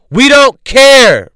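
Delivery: drawn-out we don't care; drawn-out emphatic. Real, not acted. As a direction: stretch it out, dismissive and loud. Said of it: "ranting emphatic repeat".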